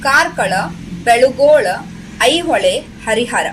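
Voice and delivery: measured, rhythmic verse reading; lilting classroom poem reading; poem recitation. Shown as a demonstration. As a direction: recite each phrase clearly for pupils to follow. Recites the second stanza.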